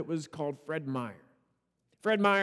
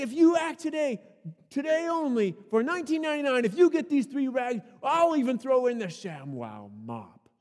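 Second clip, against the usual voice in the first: infomercial shout; 5 semitones higher than usual. Retold or imitated. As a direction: push the offer hard. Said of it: "he goes on to say".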